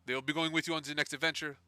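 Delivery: light put-on French accent; Eleanor, French accent. Guild boss introducing a new compatriot to the party, French accent. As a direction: address them in a French accent. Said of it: "No, I can do French".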